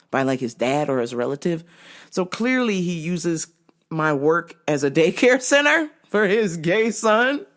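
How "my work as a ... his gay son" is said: amused laughter. Real, not acted. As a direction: laugh breaking into the words. Cracking up at own story.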